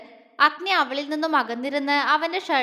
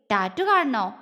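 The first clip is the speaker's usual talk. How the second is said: teasing; 3 semitones lower than usual. Acted. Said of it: "അവൻ കുറുമ്പോടെ ചോദിച്ചു".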